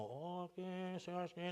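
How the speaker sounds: very soft mock-pontifical murmur; papal voice. Preacher showing how Paul did not speak, mock papal voice. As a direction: send up a pope's hushed, feeble delivery. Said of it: "Ele não falou com voz de papa".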